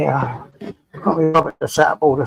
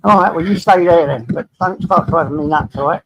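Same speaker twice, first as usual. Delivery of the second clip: mild telling-off; 3 semitones higher, 6 dB louder than usual. Real, not acted. Telling the dog off.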